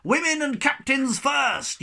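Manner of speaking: very high, loud, slow yell; captain's yell. A narrator's reading. Captain yelling as he jumps overboard. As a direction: bellow it in panic. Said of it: "yelled Captain Jeggings".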